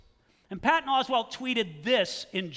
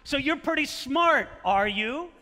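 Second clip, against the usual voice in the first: Westley's challenge; 5 semitones higher than usual. Retold or imitated. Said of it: "Wesley asks him".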